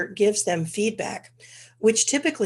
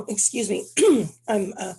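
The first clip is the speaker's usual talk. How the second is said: stuffy, congested speech; 4 dB louder than usual. Real, not acted. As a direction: talk through a blocked nose. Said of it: "very, uh, congested".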